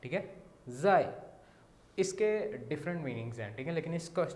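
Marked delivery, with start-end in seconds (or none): 0.7-1.1 ज़ाई with a falling tone; falling tone zai. Shown as a demonstration. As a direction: let ज़ाई fall. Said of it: "ए के ऊपर है last tone ज़ाई". (ज़ाई गिरते tone में)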